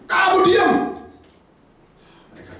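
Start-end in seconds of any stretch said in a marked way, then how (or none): 0.1-1.0 kamu diam pushed higher and louder; louder command. Acted. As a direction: hammer the repeat home. (mengulang "Kamu diam" lebih tinggi dan lebih keras)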